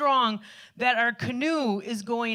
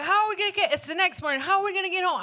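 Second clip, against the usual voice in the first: put-on raised, pleading voice of the girlfriend; high whiny worry; 8 semitones higher, much faster than usual. Girlfriend whining the morning after the storm, high-pitched and worried. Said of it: "then she's like".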